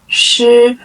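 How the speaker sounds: 师 drawn out high and level; first tone. Shown as a demonstration. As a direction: hold 师 on a level high note. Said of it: "is a first tone".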